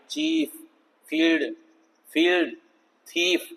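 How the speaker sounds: "चीफ, फील्ड, थीफ" with long EE, one by one. Shown as a demonstration. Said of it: "यहाँ भी long ई है".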